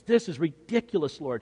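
full-voiced acted protest; exasperated objection at speaking volume; open exasperation. Repeats Peter's thought aloud as protest.

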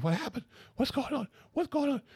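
hammed-up excited back-seat clamour; frantic questioning. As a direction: fire off high-pitched, alarmed questions.

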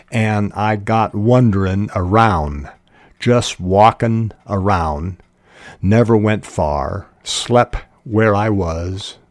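lightly voiced rural American accent; country accent. Muley telling why he stayed behind, light country accent. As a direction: read it with a hint of country dialect. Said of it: "his accent correct".

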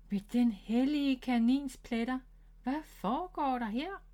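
a mother's shocked cry; astonished exclamation. Acted. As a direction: gasp it out at the mess. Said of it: "udbrød hun".

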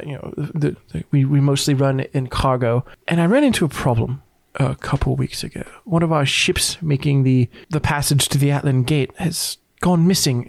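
hesitant, businesslike boss in a light put-on accent; Miss Gypsum, company owner. Miss Gypsum briefing the hired adventurers, light put-on accent. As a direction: explain the job in a lightly accented character voice.

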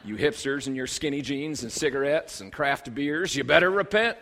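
lightly put-on Southern preacher's accent, talking down; condescending Southern accent. Imitating a preacher scolding hipsters, condescending Southern accent. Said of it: "a southern accent and a real condescending tone".

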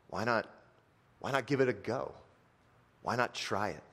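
soft, coaxing servant appeal; gentle pleading. Retold or imitated. Servant softly coaxes his angry master to try. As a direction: soften and plead with your master. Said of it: "his servant comes up to him and says".

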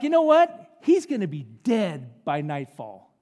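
hammed-up vengeful threat; mock threat. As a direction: imitate an angry queen vowing revenge. Jezebel voiced threatening Elijah's life.

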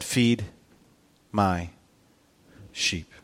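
low, soft, pause after each word; hushed, grave, word by word; solemn charge. Acted. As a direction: let "Feed", "my", "sheep" fall separately. Jesus's solemn final charge to Peter.

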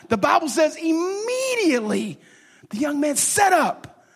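rising preacher's declaration; preaching climax. Real, not acted. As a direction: proclaim the miracle to the congregation.

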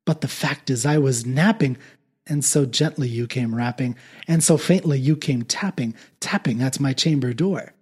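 measured dramatic poetry recital; poem reading. A narrator's reading. Reading The Raven aloud to listeners, dramatic recital. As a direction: read it like a solemn old ballad.

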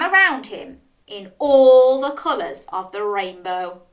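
animated, lilting storybook reading; children's story narration. A narrator's reading. Storyteller reads Dog's seaside fun, lively narration. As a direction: read it expressively to little ones.

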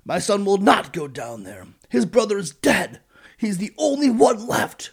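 high, loud, slow melodramatic refusal; dramatic. Retold or imitated. Old father Jacob refuses his sons, slow hammed-up high wail. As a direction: ham up the grieving old man. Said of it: "Jacob just kept on being dramatic".

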